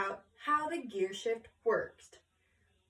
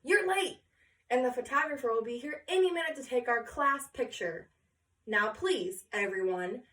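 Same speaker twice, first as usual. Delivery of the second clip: scolding teacher. Acted. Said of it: "she added with a glance toward Josephina".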